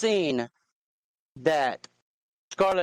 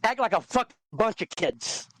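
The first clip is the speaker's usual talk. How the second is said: raised pitch, heated ranting; fed-up tirade, higher pitched; angry rant; 4 semitones higher than usual. Real, not acted. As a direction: vent hard about the liars. Heated rant about the community.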